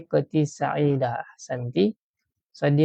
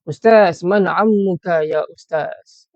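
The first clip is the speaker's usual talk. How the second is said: louder eager call of Ustaz; student calling out; 2 semitones higher, 7 dB louder than usual. Pretend. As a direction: call out to the teacher to ask. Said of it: "kalau sahabat-sahabat tanya ustaz".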